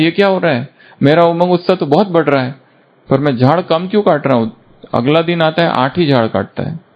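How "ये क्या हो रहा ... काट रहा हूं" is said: worried woodcutter. Acted.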